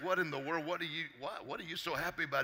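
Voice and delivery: incredulous dad, acted out; baffled dad. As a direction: ask it as a bewildered father. Baffled dad confronts happy son.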